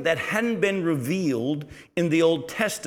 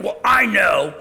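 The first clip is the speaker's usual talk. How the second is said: mock annoyed teen; 4 semitones higher, 7 dB louder, slower than usual. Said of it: "get mad and say something like".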